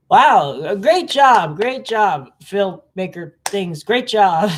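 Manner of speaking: mock praise with punched openings; sarcastic. Real, not acted. Vlogger mocking filmmakers over an unrealistic moon, sarcastic. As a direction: congratulate them without meaning a word. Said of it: "I'm being sarcastic".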